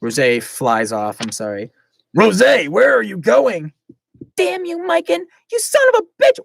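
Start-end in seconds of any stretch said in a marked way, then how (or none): 2.2-3.7 calling out. Acted. Glacia calls after Rosé. 4.4-6.4 high, loud furious yell; furious curse. Acted. Rosé cursing Mikan, high furious yell. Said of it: "those are some colorful language".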